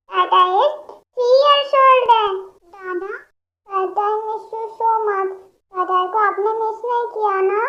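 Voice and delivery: put-on a toddler lisping her age, then pining; little-girl voice. Childlike patient tells age.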